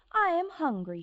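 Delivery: put-on hungry girl. Goldilocks telling the empty house she's hungry. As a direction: announce it, a bit whiny. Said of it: "she said".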